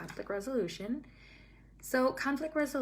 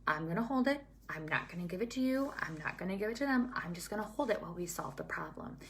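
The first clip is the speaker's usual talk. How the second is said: put-on calm a child who won't let go of a toy; reassuring; faster than usual. Shown as a demonstration. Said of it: "I just reassured them saying".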